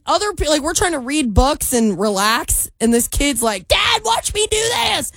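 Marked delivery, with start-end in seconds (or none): 3.7-5.1 put-on much higher, slow, childish whine; imitating a kid. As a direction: beg for dad's attention like a little kid. Kid calling to his dad.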